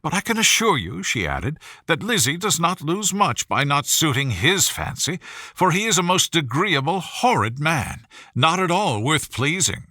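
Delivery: breathless society mother gushing over her daughter; gushing Mrs Bennet. Acted. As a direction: pour it out like a thrilled mother. Voices Mrs Bennet again.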